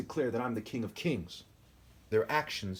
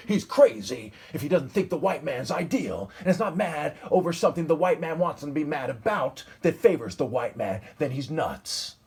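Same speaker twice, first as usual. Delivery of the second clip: mock white supremacist; 4 dB louder than usual. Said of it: "a bunch of white supremacists say".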